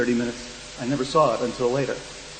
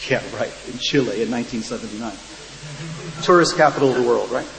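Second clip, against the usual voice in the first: dry mock scepticism; sarcastic disbelief. Interrogator to self-described tourist, sarcastic disbelief. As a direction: scoff at a feeble cover story.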